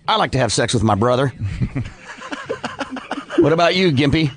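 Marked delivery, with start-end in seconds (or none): 0.1-1.3 faint mock-Texas accent; deadpan joke with a hint of Texan; barely put-on Texas accent. Shown as a demonstration. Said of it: "here's my Texas accent".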